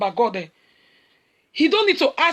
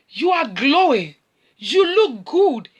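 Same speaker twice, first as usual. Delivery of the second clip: admiring church lady; 4 dB louder, slower than usual. Retold or imitated. Leader's wife praising preacher.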